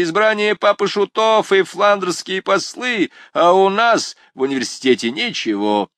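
high, loud complaining student; student griping about the university; grumbling student. Acted. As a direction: sound aggrieved and indignant.

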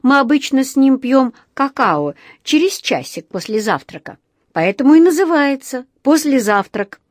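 high-pitched bear cub explaining; little bear. A narrator's reading. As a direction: explain it earnestly in a cub's voice.

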